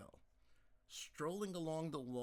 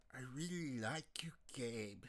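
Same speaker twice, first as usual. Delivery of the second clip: intimate whispered plea. Acted. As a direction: breathe it into his ear. Peggy seduces Gabe in bed.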